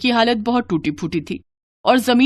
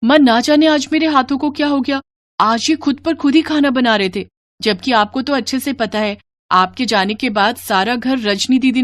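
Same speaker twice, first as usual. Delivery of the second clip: high-pitched daughter, startled then confiding; bewildered daughter; 4 semitones higher than usual. Acted. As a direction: pour out your puzzlement to mother. (ऊँची आवाज़ में हैरान बेटी)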